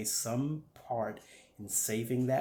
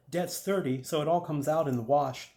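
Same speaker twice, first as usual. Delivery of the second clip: raised pitch, falling at the end; pitching Dan; 4 semitones higher, 5 dB louder than usual. Acted. Dan explains the debt to a buyer, pitched up and brisk. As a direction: lay out the figure in a higher voice.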